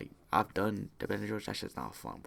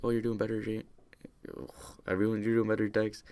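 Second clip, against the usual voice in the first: raised, louder voice of welcoming relatives; upbeat greeting; 4 semitones higher, 5 dB louder than usual. Retold or imitated. Relatives welcome him back from rehab, upbeat greeting. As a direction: greet someone home in a lifted, louder voice.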